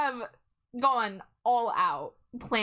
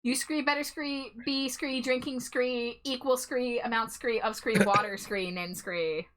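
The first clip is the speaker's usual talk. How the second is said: scree talk. Pretend. Scree after every word.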